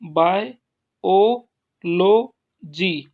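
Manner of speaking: बायोलॉजी stretched very slow and loud, hitting यो; slow teacher's stress drill; stress on third-last syllable. Shown as a demonstration. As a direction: drag out बायोलॉजी, leaning on यो. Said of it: "तीसरे syllable पर पीछे से तीसरे".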